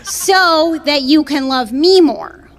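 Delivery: slow, self-satisfied ex's voice; lightly voiced smug boyfriend, slowed down; narcissist boyfriend. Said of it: "He was like".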